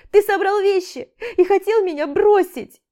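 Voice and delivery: громко и высоко, обвиняя; кричать, захлёбываясь обидой; гневный крик. A narrator's reading. Истеричное обвинение. (Аля обвиняет Олега, что он хотел уйти)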